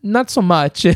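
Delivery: high, laughing imitation of a blunt professor; imitating professor. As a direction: squeak it out while laughing. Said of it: "And he goes".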